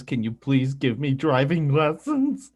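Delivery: slightly stretched plea, rising at the end; mock begging. Host imitating wife begging for driving lessons, mock pleading. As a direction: lightly act out a pleading request. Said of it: "probably begging you on her knees".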